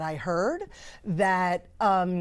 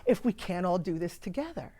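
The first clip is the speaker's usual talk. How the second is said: choked up. Real, not acted. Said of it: "I get a little emotional".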